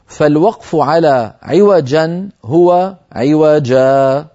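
عوجا ending in a long drawn alif; slow, stretch the final a of عوجا; stopping on عوجا. Shown as a demonstration. Teacher reading the note on stopping. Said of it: "تنبيه".

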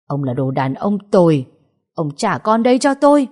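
rising into a shout at him; furious accusation. Acted. Wife screaming at her husband to give back her child, furious shout. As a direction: spit it at the faithless husband.

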